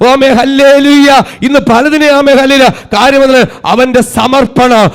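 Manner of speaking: forceful, sustained pulpit delivery; impassioned sermon swelling to stretched-out peaks; full-force preaching. Real, not acted. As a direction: drive each phrase home to the congregation.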